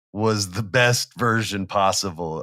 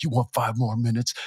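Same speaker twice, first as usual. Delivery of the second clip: mocking sneer; 3 dB quieter than usual. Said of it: "what his face looks like".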